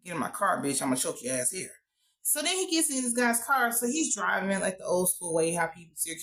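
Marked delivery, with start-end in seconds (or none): 0.0-1.7 low retold threat, under the speaker's usual pitch; retold menace. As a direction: imitate a cold, low threat. Acts out the killer's threat.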